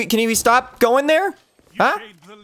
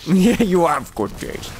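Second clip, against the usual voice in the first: laughing imitation. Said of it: "The same dialogue".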